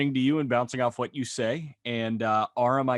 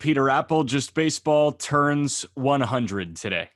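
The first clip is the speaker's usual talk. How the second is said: big podcast opener, starting loud and high; host's energetic cold-open announcement; show intro; 4 semitones higher, 5 dB louder than usual. Real, not acted. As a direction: announce the show with punch, easing toward the end.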